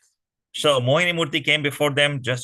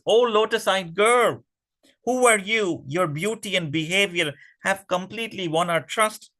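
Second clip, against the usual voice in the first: higher, lovestruck demon voice; flattering demons; 6 semitones higher than usual. Acted. Demons gush over Mohini, high lovestruck flattery. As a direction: woo her with gushing praise.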